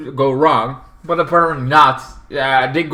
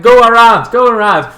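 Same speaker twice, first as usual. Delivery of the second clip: loud, raised-pitch urging; annoyed yelling; 7 semitones higher, 10 dB louder than usual. Acted. Driver waving on the honking truck, annoyed yell. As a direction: call out impatiently to the other driver.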